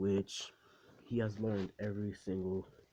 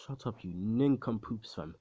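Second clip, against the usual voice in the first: slow, drawn-out "Shut up, you nincompoops"; slow put-down. Retold or imitated. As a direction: drag out the insult with slow contempt. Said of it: "he says this, and then he says this".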